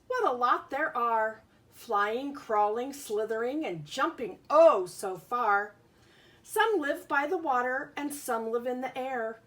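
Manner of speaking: lilting picture-book read-aloud; reading to children. Acted. Teacher reads a bug book to her class, sing-song. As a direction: read the rhyming book to the kids.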